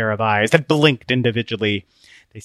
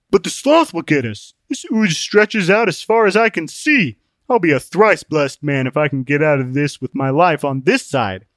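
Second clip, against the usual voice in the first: high, louder put-on voice of protest; Open-Minded, fearful; 4 semitones higher, 4 dB louder than usual. Open-Minded facing the endless ooze and sloth, fearful. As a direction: protest anxiously in a raised character voice.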